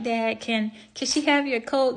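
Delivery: a hint of a daughter's pleading question; daughter asking dad. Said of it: "his daughter, she noticed".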